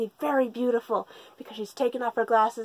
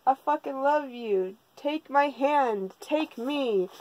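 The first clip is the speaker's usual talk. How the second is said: slow, drawn-out lovestruck plea; mock love confession; 3 semitones higher, slower than usual. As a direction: act out a smitten confession in jest.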